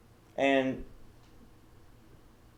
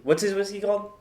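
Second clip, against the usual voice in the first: mock Conor voice; 8 semitones higher than usual. Imitating Conor in the bar.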